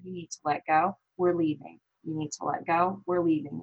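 retold firm, even-toned instruction; calm, controlled telling-off without raising the voice; deliberately neutral. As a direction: keep it level and matter-of-fact, repeating the instruction. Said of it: "tried to just stay super, just, like, neutral".

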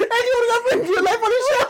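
words squeezed out high through laughter; laughing while talking. Real, not acted. Friend teasing mid-laugh, high and laughing. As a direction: talk through the giggles.

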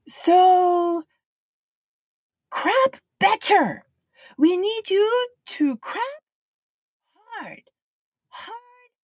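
put-on high, slow, urgent Japanese accent, crap for clap; Japanese-accented English. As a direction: plead with the crowd in a Japanese accent. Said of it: "He's like".

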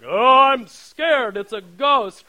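high, slow, unbothered mock scared voice; lightly mock a calm ghost sighting; mock understated fright. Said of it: "I'm sure it wasn't like".

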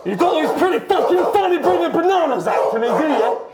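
hammed-up Aussie-ish accent on every line; lightly put-on antipodean accent, threatening the host; weird put-on accent. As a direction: play Coco the tough Yeti, mock menacing. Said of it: "that's a weird fucking accent".

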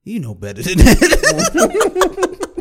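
put-on drawn-out creepy old man line, breaking into laughter; slow, teasing old geezer imitation. Old man chides his aide, creepy geezer imitation. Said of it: "creepy old geezer voice".

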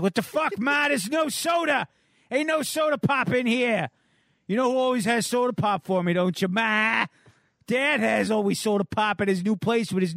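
put-on a spoiled kid throwing a tantrum; bratty teen whining. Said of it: "He's like".

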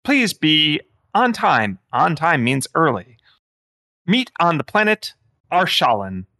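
lilting phone-menu AI voice; sing-song scheduling bot. Acted. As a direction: play a basic automated answering system. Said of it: "very low-level A I that's like".

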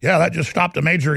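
flat mechanical robot voice. Retold or imitated. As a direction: talk like a robot. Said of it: "he starts talking like a robot".

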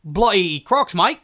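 put-on Aussie bushman; lightly done Dundee accent; mock Crocodile Dundee. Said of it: "Crocodile Dundee tagline?".

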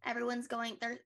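out of breath, gasping between words. Real, not acted. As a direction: talk while catching your breath. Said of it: "I need to catch my breath".

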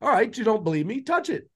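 lightly voiced dad calling the kid's bluff; a teasing father letting them learn; daring parent. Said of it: "I did this to my kids".

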